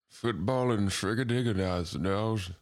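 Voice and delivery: slow, garbled politician; put-on orator, drawn out; mock presidential speech. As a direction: slur nonsense like a speechifying president. Other host joins mock speech.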